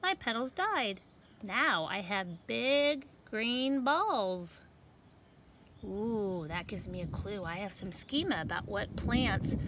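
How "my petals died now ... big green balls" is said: lively seed voices for a picture book; talking seed characters. Acted. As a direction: voice the little seeds for kids. Seeds describe their growth.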